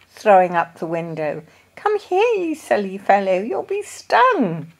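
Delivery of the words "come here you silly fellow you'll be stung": warning shout. A narrator's reading. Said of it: "shouted Mister Brown".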